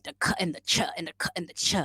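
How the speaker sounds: k and ch said as bare sounds; isolated consonant sounds. Shown as a demonstration. Learner showing troublesome sounds, isolated consonants. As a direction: sound out "k" and "ch" alone, alternating. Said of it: "my issue is also the pronunciation".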